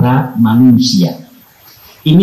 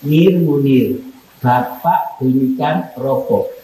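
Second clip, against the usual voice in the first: curt call by name; 4 dB quieter, slower than usual. Shown as a demonstration. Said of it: "Sama rasakan enak mana?".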